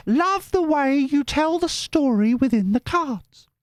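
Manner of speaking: very high, slow squeaky voice; high-pitched viewer voice. Retold or imitated. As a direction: read her message in a silly squeak. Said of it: "all the voices are me".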